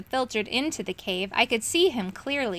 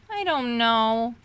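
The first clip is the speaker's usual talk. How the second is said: close to tears; slower than usual. A narrator's reading. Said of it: "He sounded as if he were about to cry".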